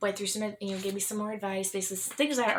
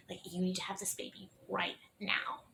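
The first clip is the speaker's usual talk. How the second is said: hushed retelling; 5 dB quieter than usual. Retold or imitated. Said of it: "I was not expecting her to tell me".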